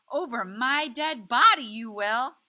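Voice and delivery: wife yelling at her husband, tearful and furious. A narrator's reading. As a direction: scream it through tears at your husband. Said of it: "That's Graham yelling, her voice is big and full of tears".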